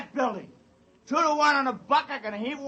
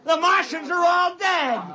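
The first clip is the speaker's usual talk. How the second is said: rowdy shout; 2 semitones higher than usual. Acted. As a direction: whoop it up, call out to the men. Drunken crew celebrating loudly.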